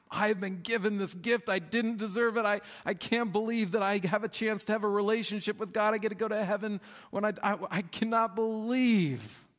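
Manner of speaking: high, breathless wonder; amazed gratitude. Acted. Believer marvelling at God's grace, high and excited. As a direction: gush at the undeserved gift.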